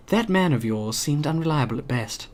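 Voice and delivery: put-on a light posh accent, barely shifted; lightly posh, said softly. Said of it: "I'm gonna give him a posh voice".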